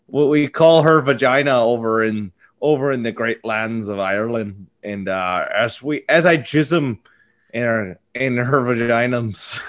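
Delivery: lightly put-on Irish accent; a hint of Irish brogue, hammed up; bad Liam Neeson impression. Mock Irish Liam Neeson taunting a cuckolded husband. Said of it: "worst Liam Neeson impression of all time".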